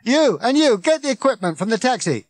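loud, high megaphone orders; officious bellow at full pitch; bawling. A narrator's reading. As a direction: shout bossily over a crowd. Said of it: "bawling at the crowd through it".

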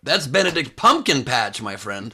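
put-on a clumsy British accent, slow; hammed-up bad British accent, drawn out; mock British accent. Host mocking guest's bad impression, British accent. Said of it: "Did you do a British accent".

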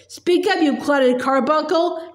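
roaring insult. Acted. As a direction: snarl the insult slowly. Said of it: "roared the Trunchbull".

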